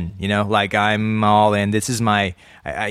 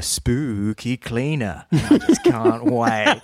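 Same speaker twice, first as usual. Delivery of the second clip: mock excited; 6 semitones higher, slower than usual. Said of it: "So I said".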